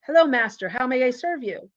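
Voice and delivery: lightly voiced genie, pitched a little high; mildly theatrical servant-of-the-lamp greeting. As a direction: offer service like a storybook genie. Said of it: "a genie appears".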